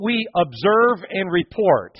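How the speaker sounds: slow, deliberate mock excuse; quoting the guards. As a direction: spell out the excuse slowly. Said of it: "their response was".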